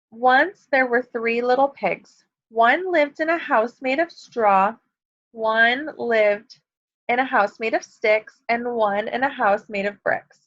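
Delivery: slow, clear storybook read-aloud; reading to children. A narrator's reading. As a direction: read it gently to a class of kids. Teacher reads story aloud.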